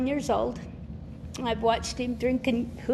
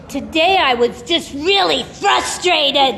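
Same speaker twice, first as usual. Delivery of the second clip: put-on slow, louder child voice; little boy's voice; 4 semitones higher, 9 dB louder, slower than usual. Grandson at four reports his feelings, earnest child voice. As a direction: say it like an earnest four-year-old. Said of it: "one day he goes".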